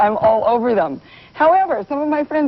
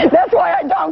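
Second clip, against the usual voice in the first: put-on Valley girl voice; 13 semitones higher than usual. Shown as a demonstration. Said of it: "You don't talk like a Valley girl".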